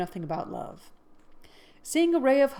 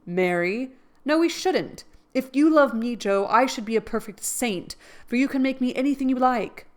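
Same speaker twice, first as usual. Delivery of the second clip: higher, louder, eager; rapturous; 6 semitones higher, 7 dB louder than usual. Acted. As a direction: pour it out joyfully. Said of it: "uttered it with a rapturous expression".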